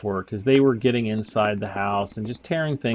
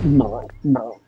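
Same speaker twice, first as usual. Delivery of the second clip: whispered; 5 dB louder than usual. Retold or imitated. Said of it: "I'm always like".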